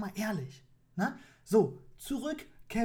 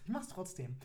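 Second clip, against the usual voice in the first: quiet repeat; 2 semitones lower, 7 dB quieter than usual. Acted. Repeats admission after laughing.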